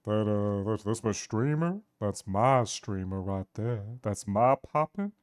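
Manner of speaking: slow, proud tough-guy boast. Pretend. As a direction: boast like a gruff anime bruiser. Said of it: "I can go lower in a different way".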